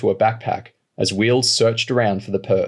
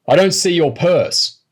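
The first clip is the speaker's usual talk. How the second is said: high, loud yell; 8 semitones higher, 5 dB louder than usual. Acted. Robber yelling at the woman, high and loud. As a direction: bark it at her, gun raised. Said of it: "Wheels yelled".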